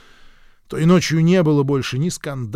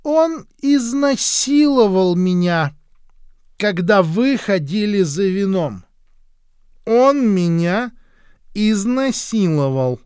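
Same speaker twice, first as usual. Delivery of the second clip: high, slow, drawn-out accusing voice of a half-mad woman; duchess's accusation; 7 semitones higher, 5 dB louder, slower than usual. A narrator's reading. The duchess accuses Hank in front of friends, high and slow. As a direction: point and drag out each word, much higher and louder. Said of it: "Наконец герцогиня разродилась".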